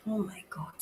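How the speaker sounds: hushed shock; whispered. Real, not acted. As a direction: breathe it out in shock. Medium shaken.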